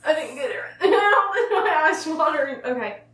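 lips stiff under peeling mask; talking while peeling at lips; through a face mask. Real, not acted. Seen 0: Peel-off mask around lips, fingers pulling at mouth; unsure which woman speaks.

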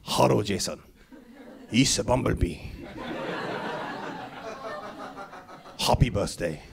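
low, slow robot-like voice of a man on the phone; Bumblebee on the phone. Retold or imitated. Dad on the phone to his six-year-old son, in a low, slow robot-like voice. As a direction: put on the Bumblebee voice for the child. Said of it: "the voice from the other end".

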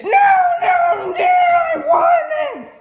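high, loud protest, slow at the end; shouted no. Real, not acted. Child refuses mother.

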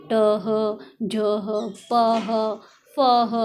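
टह, झह, पह, फह each ending in a separate "ha"; held vowel then "ha" in टह, झह, पह, फह; letters with h added. Shown as a demonstration. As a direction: drill each letter, then add a breathed ह. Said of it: "ह की sound आ रही है".

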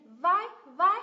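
"vi" drawn out slow, high and loud; stressed syllable. Shown as a demonstration. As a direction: punch and stretch each "vi". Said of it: "âm thứ nhất cũng được nhấn".

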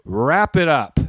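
drawn-out, firm heckle; retold heckle. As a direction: call out a firm, deliberate interjection. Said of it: "I leaned forward, and I just said".

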